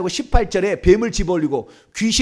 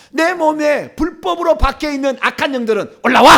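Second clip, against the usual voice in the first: raised, forceful exorcism order; commanding; 5 semitones higher, 5 dB louder than usual. Shown as a demonstration. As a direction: command the spirits with a punched final word. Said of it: "이렇게 얘기해야 되니".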